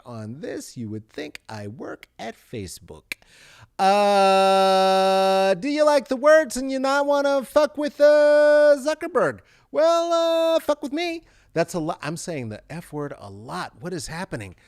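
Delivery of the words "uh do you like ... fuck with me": loud, high hammed-up Italian accent; stereotypical Italian accent. Host pitching his Twitter in loud Italian accent. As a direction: play the cartoon Italian pitchman. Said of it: "problematic Italian, uh, stereotypical voice".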